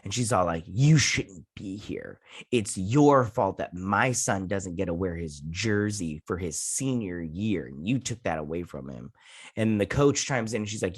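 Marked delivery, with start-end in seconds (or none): 0.7-9.1 imitated confrontation. Angry mother confronts Jonathan over her son, mock accusing. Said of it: "this woman confronts Jonathan".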